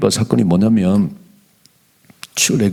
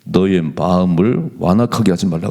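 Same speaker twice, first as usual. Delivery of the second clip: slow, lower, measured reading of the verse; scripture reading; 3 semitones lower, slower than usual. Acted. Pastor reading Psalm 95 to the church, slow and solemn. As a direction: pastor reads the psalm slowly to the congregation, solemn.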